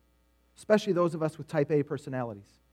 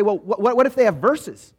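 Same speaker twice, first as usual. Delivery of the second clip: stammering objection; 4 semitones higher, 4 dB louder than usual. Retold or imitated. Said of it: "what about you say".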